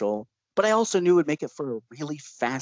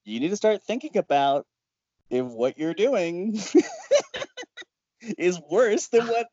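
scolding; 5 semitones higher than usual. Retold or imitated. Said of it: "scolding him like a little kid".

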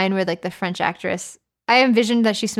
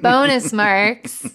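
slow drawn-out punchline; 4 semitones higher, 6 dB louder, much slower than usual. Acted. Joke tag.

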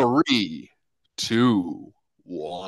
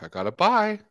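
aunt voice; 11 semitones higher, 3 dB quieter than usual. Retold or imitated.

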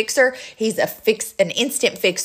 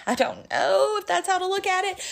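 laughing; 11 semitones higher, 4 dB quieter than usual. Real, not acted. Laughing self-doubt.

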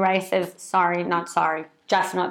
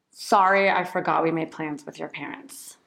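owning responsibility; 3 semitones lower than usual. Shown as a demonstration. Partner confessing forgotten plans, taking responsibility. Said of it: "The third type is capital S".

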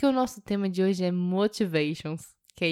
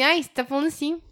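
higher-pitched Mineiro accent, retold; mock mineiro; 6 semitones higher, faster than usual. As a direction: imitate a lilting Minas Gerais accent. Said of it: "falando igual mineiro". (imitando sotaque mineiro, mais agudo)

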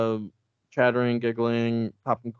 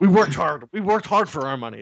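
indignant rich man's yell, raised pitch; mock yelling; 4 semitones higher, 4 dB louder than usual. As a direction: yell it like an offended rich snob. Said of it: "Just yelling it".

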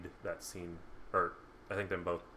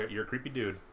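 bad acting; faster than usual. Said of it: "She delivers it like that".

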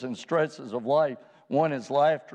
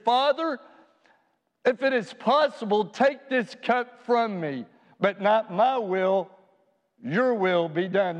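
pleading prayer; 5 semitones higher than usual. Acted. Voicing Jesus' prayer in Gethsemane.

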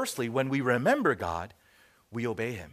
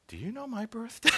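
put-on higher, timid child's question; sheepish child; 7 semitones higher than usual. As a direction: imitate a son unsure whether Daddy remembers. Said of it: "sheepish voice".

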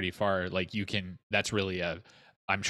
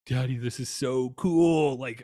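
put-on excited kid; 6 semitones higher than usual. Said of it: "he's just like".

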